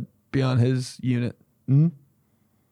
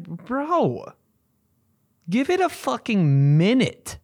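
high-pitched, strained comic protest; mock exasperation; 9 semitones higher, slower than usual. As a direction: complain in a pitched-up voice. Scolding owner watching dog.

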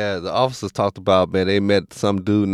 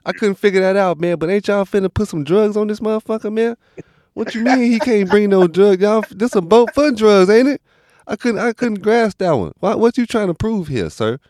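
incredulous; 10 semitones higher than usual. Retold or imitated. Friends watching a drug documentary, pitched up in mock disbelief. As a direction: act shocked that drugs are banned. Mocking the boat rules, incredulous.

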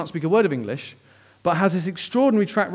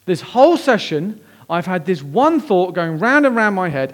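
dramatic outburst; 3 semitones higher, 5 dB louder than usual. Retold or imitated. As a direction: burst out with it like a friend springing up mid-session. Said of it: "he jumps up very dramatically".

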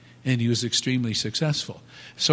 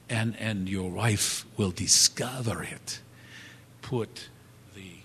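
conspiratorial whisper; 3 semitones lower, 5 dB quieter than usual. Retold or imitated. Florist's secret tip to husband.

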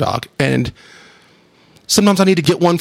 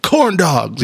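higher, half-shouted cheer of corn dogs; playful hyped-up yell; mock yell; 6 semitones higher, much slower than usual. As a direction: bark it out like a coach cheering a three. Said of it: "I'd just yell".

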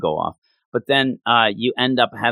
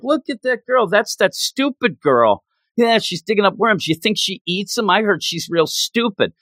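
higher-pitched imitation of jeering kids; mock taunting; 5 semitones higher than usual. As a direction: play schoolkids pointing and making fun of a girl. Retold taunts from other kids.

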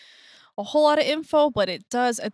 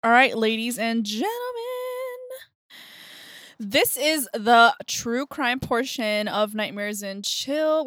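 host announcer voice. Acted. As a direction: introduce the show like a host. Show host intro.

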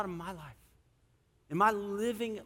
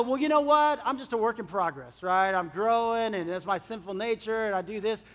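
mock self-excuse; 2 semitones higher, 3 dB louder than usual. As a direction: shrug it off like a lazy excuse.

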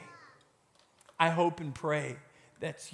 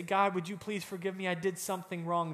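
soft prayer; 3 dB quieter, faster than usual. Retold or imitated. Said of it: "we say".

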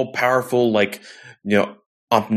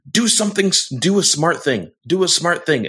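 mocking Sue; 6 semitones higher, faster than usual. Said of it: "Sue looks at Reed and says".

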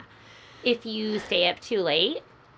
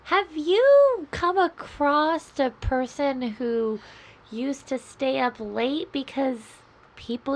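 eerie searching voice; 4 semitones higher than usual. Pretend. Lost identity skit, eerie call.

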